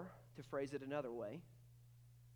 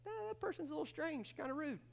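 mock judgmental; 12 semitones higher, faster than usual. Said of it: "you didn't think".

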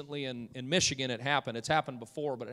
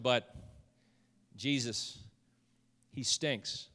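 low, soft, halting delivery; hushed objection; 5 semitones lower, 8 dB quieter, slower than usual. Retold or imitated. Martha reluctantly objecting at the tomb, hushed. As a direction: voice a hesitant, quiet protest with pauses.

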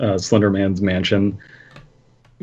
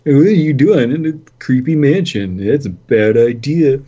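mock facetious; 5 semitones higher, 4 dB louder than usual. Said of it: "trying to be facetious".

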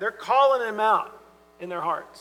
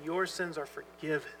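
calm authority; 4 semitones lower, 11 dB quieter than usual. Retold or imitated. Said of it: "with the authority that he has".

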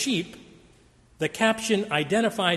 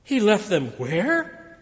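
surprised; 3 semitones higher, 4 dB louder, slower than usual. Retold or imitated. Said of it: "And I thought to myself".

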